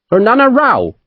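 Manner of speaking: high, friendly Devonshire naval captain; friendly Devonshire accent. A narrator's reading. Captain politely announcing himself at the merchant's house, friendly Devonshire accent. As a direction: greet him breezily in a Devonshire accent. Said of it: "a friendly voice that had a distinct Devonshire accent".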